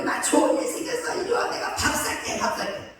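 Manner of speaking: breathless, whispered excitement; excited phone call to a friend. Retold or imitated. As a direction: gush the good news in a hush. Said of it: "친구한테 전화해가지고". (친구에게 전화로 속삭이듯 들뜬 자랑)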